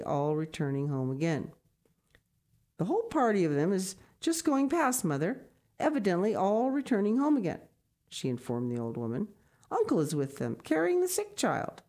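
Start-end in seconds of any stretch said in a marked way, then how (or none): 2.8-7.6 raised, higher woman's voice telling news; Brigitte's announcement. Acted. Brigitte announcing the party to her mother. 9.7-11.8 lightly voiced woman, pitch jumping up; Brigitte reporting. Brigitte telling the blind grandmother, lightly voiced.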